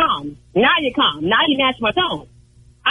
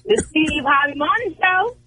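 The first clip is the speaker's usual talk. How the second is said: in her tone; 4 semitones higher than usual. Pretend. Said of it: "Tell me in your tone".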